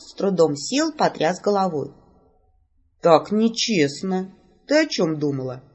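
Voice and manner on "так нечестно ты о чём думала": ordinary delivery, nothing marked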